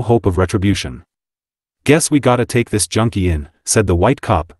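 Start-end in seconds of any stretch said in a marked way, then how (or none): 1.8-3.5 put-on New York Mott Street accent; gruff Mott Street New York cop. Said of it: "in a Mott Street accent".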